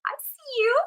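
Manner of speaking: knowing nod to a thought, lifting high at the end; calm acknowledgment. Shown as a demonstration. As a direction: greet the thought like an old acquaintance. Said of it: "And you can say".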